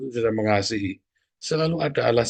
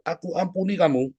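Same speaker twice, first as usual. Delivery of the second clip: boiling forgiveness; 6 semitones higher than usual. Shown as a demonstration. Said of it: "saking marahnya kamu muncak".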